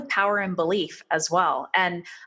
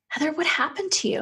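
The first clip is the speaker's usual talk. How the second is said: shocked doctor; 9 semitones higher than usual. Retold or imitated. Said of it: "And she's like".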